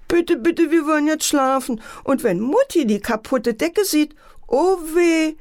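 high pleading little girl, a hint of sobbing. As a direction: beg tearfully like a scared little sister. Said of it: "schluchzte Antje".

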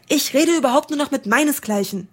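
offended raven leaving the flock, fast and huffy; huffy croak. Acted. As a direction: storm off in a huff. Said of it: "krächzte einer ... mit wütendem Flügelschlag".

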